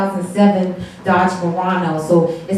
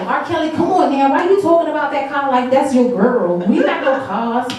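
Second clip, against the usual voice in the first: higher-pitched retold protest; mock offended; 4 semitones higher than usual. Comedian telling off R. Kelly over his car song, mock offended. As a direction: scold the singer in mock offence. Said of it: "offended when I first heard this song".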